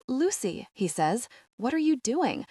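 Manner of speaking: a voice on the edge of tears, rising high; almost crying. Acted. Ravi pleads with Lavender, almost crying. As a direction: hold back the tears, only just. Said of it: "is almost crying".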